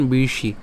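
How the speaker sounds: "বিশি" with a retroflex sh, tongue curled back; retroflex sibilant. Shown as a demonstration. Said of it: "মূর্ধন্য স আছে যেহেতু".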